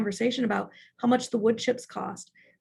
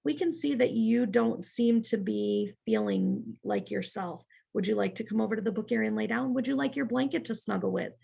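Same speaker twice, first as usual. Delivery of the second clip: soothing teacher voice. Shown as a demonstration. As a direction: settle a tired child kindly. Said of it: "we could say".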